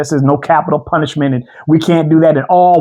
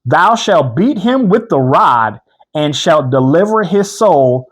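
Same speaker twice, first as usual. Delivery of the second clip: solemn scripture reading; much slower than usual. Acted.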